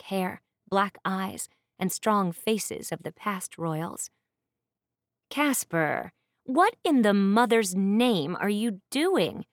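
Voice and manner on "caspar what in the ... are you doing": loud, slow scolding demand; furious sister. Acted. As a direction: call him out, outraged. Sister furious at her brother.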